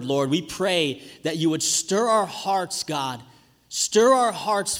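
earnest prayer, pausing between addresses to God. Real, not acted. Leads congregation in prayer.

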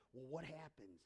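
normal talking voice

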